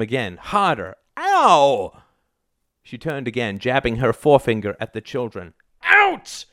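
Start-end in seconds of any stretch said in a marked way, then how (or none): 1.2-2.0 high, drawn-out cry of pain; pained yelp. A narrator's reading. Husband slapped harder. 5.8-6.4 very high, piercing order; shrieked command. A narrator's reading. Mother orders children out.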